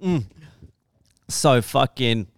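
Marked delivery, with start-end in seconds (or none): 0.0-0.2 laughing. Real, not acted. Laughing at the punch story.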